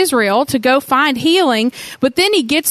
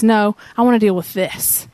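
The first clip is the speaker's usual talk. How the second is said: gently; 3 semitones lower than usual. Retold or imitated. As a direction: coax him kindly to open up. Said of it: "Jesus very gently says".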